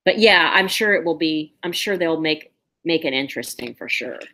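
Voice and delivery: talking while crunching ice; words round a mouthful of ice. Real, not acted. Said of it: "I'm crunching ice cubes".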